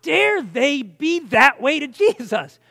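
drawn-out indignant disbelief. Retold or imitated. Preacher recalling his sense of injustice at Jesus' treatment, indignant. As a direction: stretch each word out in outrage. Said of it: "sense of injustice swelling up in my heart".

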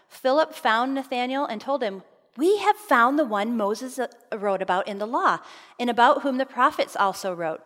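expressive Bible reading, lifted and emphatic; scripture reading. Acted. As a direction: read the passage out to a congregation. Reads scripture aloud to audience.

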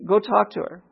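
simple, steady instruction; lightly voiced inner prompting; Holy Spirit prompting. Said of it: "Here's the Holy Spirit again".

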